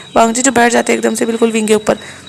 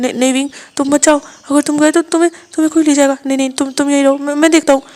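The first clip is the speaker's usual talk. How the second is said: flustered, higher, louder, stammering; panicked; 3 semitones higher, 3 dB louder than usual. Acted. Wang ji panics and stops Wing from opening the door. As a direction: grab him back in fear.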